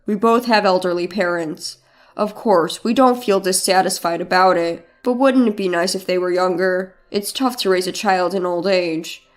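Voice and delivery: a mild hint of the husband pressing his case; husband's request. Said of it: "but Leon proposed".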